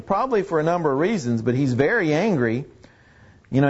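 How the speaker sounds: usual speaking voice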